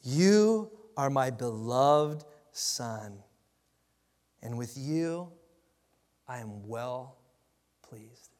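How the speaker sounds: solemn, unhurried divine pronouncement; a hint of a heavenly voice, slowed way down; voice of God. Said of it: "this is what the voice said".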